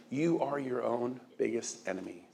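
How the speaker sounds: normal talking voice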